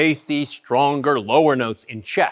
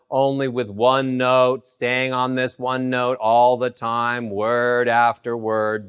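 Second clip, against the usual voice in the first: one flat note, lower; monotone demo; 5 semitones lower than usual. Shown as a demonstration. Coach demonstrating a monotone, low and even. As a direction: drone on a single note. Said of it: "This is called monotone".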